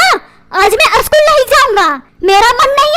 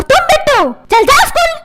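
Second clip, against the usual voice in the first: higher-pitched, exasperated order; cross mother, voice pitched up; scolding mother; 4 semitones higher than usual. Acted. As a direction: turn on the boy and order him off. Mother turns to scold son.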